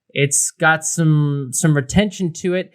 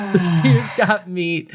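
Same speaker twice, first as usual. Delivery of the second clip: mock tough-guy repeat; 3 semitones higher, slower than usual. Echoing friend's joke line.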